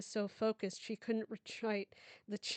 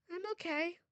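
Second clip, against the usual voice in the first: put-on high, whispered little girl voice; small child's whisper; 9 semitones higher than usual. Daughter reassuring her mother, whispered and high.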